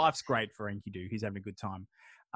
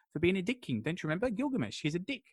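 higher-pitched mock exasperation; incredulous reminder; 6 semitones higher than usual. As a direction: remind a forgetful mate, playfully indignant. Retold exasperated reminder to Enkidu.

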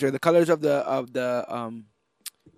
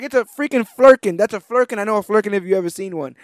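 louder, higher mock exasperation; exasperated insistence; 4 semitones higher, 5 dB louder, faster than usual. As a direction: insist like nobody listens. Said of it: "And he's like".

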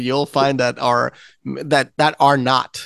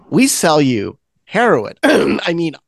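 slow, drawn-out salesman spiel with fake slips; hammed-up corporate spokesman correcting himself; mock drug-company pitch; 4 semitones higher, slower than usual. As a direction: slowly pitch it like a sly advertiser.

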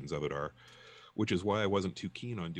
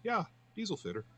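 mocking impression; 13 semitones higher than usual. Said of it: "puts them on his head and goes".

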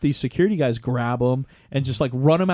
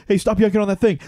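raised, higher scolding; mock yelling; 6 semitones higher, 4 dB louder, faster than usual. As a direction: imitate a singer breaking off to yell at fans. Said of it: "go right to yelling at these people".

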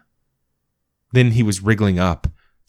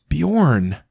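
panicked call; 8 semitones higher than usual. Acted. Dog collapses.

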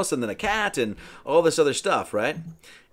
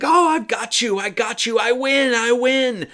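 higher, louder triumphant crowing; gloating witch; 9 semitones higher, 5 dB louder than usual. Retold or imitated. Mim grabs the mouse Merlin, higher louder gloating. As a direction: crow over the catch like a gleeful witch. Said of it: "and he's like".

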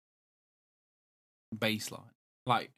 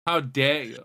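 mock-indignant retort, a bit louder; imitated offence; 2 semitones higher, 5 dB louder, slower than usual. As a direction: imitate someone deeply affronted. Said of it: "He was so offended".

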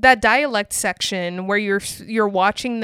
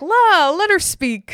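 drawn-out, high camp movie delivery; hammed-up old film actor, stretched and louder; big theatrical exaggeration; over-the-top camp acting; 9 semitones higher, 4 dB louder, slower than usual. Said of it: "very over the top camp".

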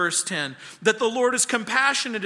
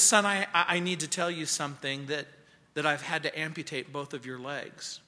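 soft, halting, low delivery; quietly voiced surgeon's bad news; breaking bad news; 4 semitones lower, 6 dB quieter than usual. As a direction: break hard news gently, voice dropping low.

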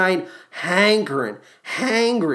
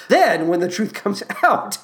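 normal talking voice

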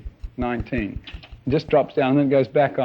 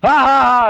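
higher, louder mock laughter; 8 semitones higher, 5 dB louder than usual. Preacher mimics the congregation laughing at the film, mock laugh. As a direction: act out the audience's laugh. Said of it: "you're laughing, you sucker, you laugh".

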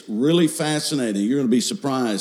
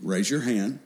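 gentle encouragement; 4 dB quieter than usual. Retold or imitated. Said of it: "we would encourage them in church".

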